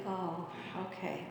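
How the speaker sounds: soft, low, deflated sigh of resignation; a mild, disappointed sigh; resigned sigh. Retold or imitated. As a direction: sigh it out like a let-down fan. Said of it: "You sigh and you say".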